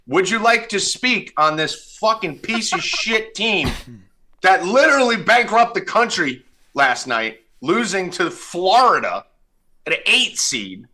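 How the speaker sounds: high-pitched ranting tirade; mock outrage. Real, not acted. Host raging at co-host over the Bruins loss, pitch up. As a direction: rail at him over his team's collapse.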